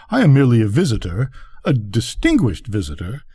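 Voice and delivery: lightly voiced grandee; pompous rocket. Rocket disdaining the place to the duck, pompous. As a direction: sound mildly bored and self-important.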